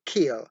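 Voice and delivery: Kill with a strong puff of air on the k; aspirated kill. Shown as a demonstration. Teacher models Kill for students, aspirated k. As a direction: breathe out hard on the k of Kill. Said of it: "pronounce it".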